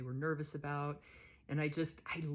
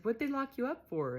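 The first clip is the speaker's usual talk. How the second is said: higher and louder, eager; curious question; 9 semitones higher, 7 dB louder than usual. Retold or imitated. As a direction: lean in, eager to know. Asking Candy her crime.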